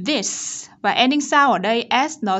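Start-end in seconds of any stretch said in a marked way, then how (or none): 0.1-0.7 "This" with a careful voiced th and hissed s; isolated teacher model of "This"; tongue-forward TH. Shown as a demonstration. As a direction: push the tongue forward to start "This". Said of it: "chúng ta sẽ đẩy lưỡi này".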